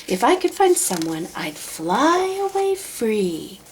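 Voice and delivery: a hint of a lazy, pampered bird; lazy bird Maisie. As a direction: complain like a bored, idle bird. Maisie character voice.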